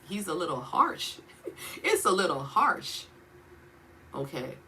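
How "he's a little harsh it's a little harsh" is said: laughing. Real, not acted. Half-laughing understatement about God.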